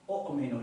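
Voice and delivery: أؤمن said as long u, ominu; pronouncing the result. Shown as a demonstration. A teacher showing the changed أؤمن. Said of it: "نقول".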